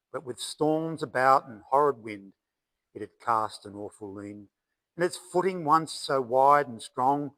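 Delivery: steady ballad rhythm, each line falling away at the end; poem recital. Acted. Poet recites his poem on a fallen red gum, poem recital. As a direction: recite it as measured bush verse.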